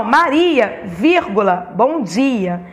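"Maria", then a low spoken "vírgula", then "bom dia"; name the comma, pitch falling on it; comma spoken aloud. Shown as a demonstration. Teacher dictating the reversed greeting, speaking the comma. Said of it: "eu sempre separo do restante da frase".

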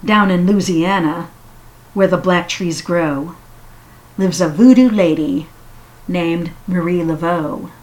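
rhythmic storytelling read; measured poetic recital; poem reading. Acted. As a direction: read it like a spooky bedtime poem. Reads Silverstein poem aloud.

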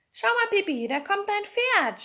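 put-on high, loud child calling out; excited boy's cry, pitched high; excited shout. A narrator's reading. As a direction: call out the news, drawing out the last words. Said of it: "schrie Tommy".

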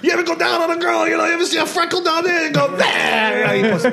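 mock hack comic. Imitating a hack comic's set.

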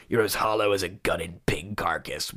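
hushed, breathy repeat of the line; whispering the Joker line in mock horror; whispered quote. Shown as a demonstration. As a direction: whisper it back in disbelief. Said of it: "Why, why did you say that?".

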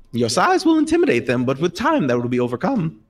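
high sage gnome; wise gnome. Acted. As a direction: advise gently as the old gnome. Gnome teaches player.

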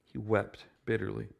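soft, grave "He wept bitterly"; hushed sermon echo; quiet repetition. Shown as a demonstration. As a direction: let it sink in quietly. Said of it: "think more about those two words".

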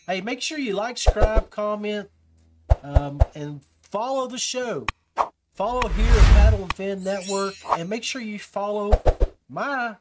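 loud, upbeat call to like and subscribe; hyped sign-off announcer read; podcast plug. Acted. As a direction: pump up the audience to follow the show. Plug for likes and follows.

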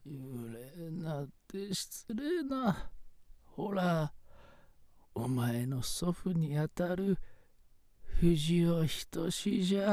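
put-on slow old ghost grandpa; quiet old-man spirit, slowly. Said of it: "幽霊の声？".

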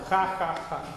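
firm, fuller spoken ha ha ha. Shown as a demonstration.

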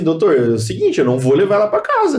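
firm retold refusal, pitch climbing at the end; retold ultimatum. Husband refusing to take her home from hospital, retold ultimatum. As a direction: lay down terms, lightly re-enacted. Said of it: "chegou no ultimato".

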